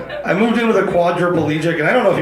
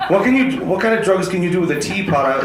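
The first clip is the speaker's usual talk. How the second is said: baffled question; 3 semitones higher than usual. Retold or imitated. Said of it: "they went to me".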